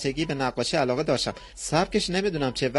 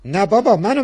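a comic exasperated "نه بابا"; loud denial; 4 semitones higher, 5 dB louder than usual. Acted. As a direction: burst out "بابا" loud and sharp. Man denies, then explains wife.

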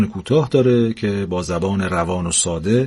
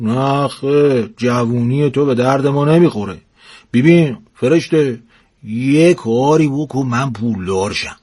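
put-on stubborn old husband; 3 semitones higher than usual. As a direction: insist on getting rich. Husband insisting on money. (پیرمرد لجباز با تأکید آهسته)

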